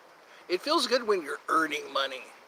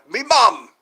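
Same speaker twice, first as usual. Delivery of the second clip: loud announcement; 5 semitones higher, 11 dB louder than usual. Real, not acted. Announcing his mum to chat.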